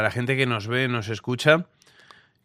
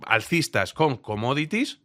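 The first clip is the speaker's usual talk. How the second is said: drawn-out words, deliberate pauses between items; emphatic recited quote; 4 dB louder than usual. Retold or imitated. Co-host continuing an analyst's list of positions, slow and emphatic. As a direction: list it slowly and firmly. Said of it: "esto es lo que decía él".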